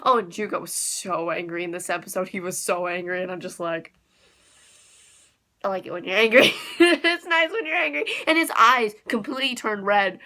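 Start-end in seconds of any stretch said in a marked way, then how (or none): 5.6-8.0 giggly fan. Real, not acted. Fangirling over angry character.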